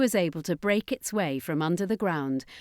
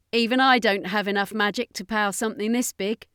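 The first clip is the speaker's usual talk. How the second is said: confident alien; 3 semitones higher than usual. Acted. Danica voiced, confident alien.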